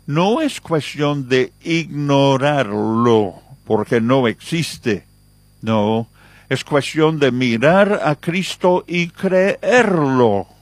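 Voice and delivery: slow, weighty preaching, each word pressed; slow emphatic preaching. Acted. Preacher urges the flock to look at Christ, slow emphatic preaching. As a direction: lean in and drive the lesson home.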